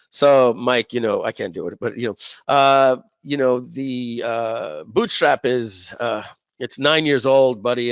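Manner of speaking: lightly voiced Matt, slow and hesitant; a hint of a partner gently breaking bad news, drawn out; Matt impression. Imitating partner Matt easing into bad news, slow and hesitant. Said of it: "And I'll do my Matt impression".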